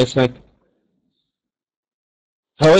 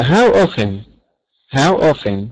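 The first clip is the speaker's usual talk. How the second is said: slow model phrase; much slower than usual. Shown as a demonstration. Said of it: "دي معناها كم مرة".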